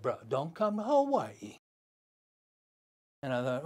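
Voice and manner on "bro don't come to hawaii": menacing warning. Retold or imitated. Gangster warning the surfer on the phone, slow and menacing. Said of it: "He said".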